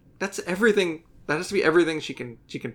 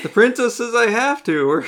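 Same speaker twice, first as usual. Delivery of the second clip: apologetic henchman; 5 semitones higher than usual. Pretend. Acts out the sweet reluctant henchman.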